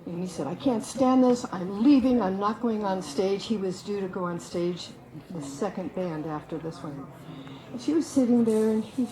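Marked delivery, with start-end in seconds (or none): 0.5-3.5 mildly raised, indignant voice; imitating an irate performer's outburst; retold angry yell. Irate bandleader yelling at Carol before his set, mock angry yell. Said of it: "he was yelling and screaming".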